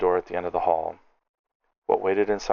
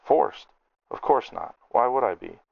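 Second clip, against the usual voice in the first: bitter scoff; 6 semitones higher than usual. Acted. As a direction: scoff at the very idea. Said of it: "The gnome let out a bitter laugh".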